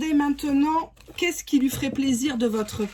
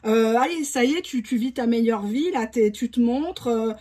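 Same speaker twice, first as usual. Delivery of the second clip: imitating jealous partner. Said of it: "cette personne va même te dire".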